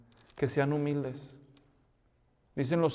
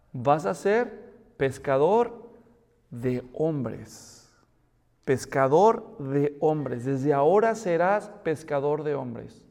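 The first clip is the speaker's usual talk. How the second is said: tender promise; 3 semitones lower, much slower than usual. Acted. Jesus' promise, slow and tender.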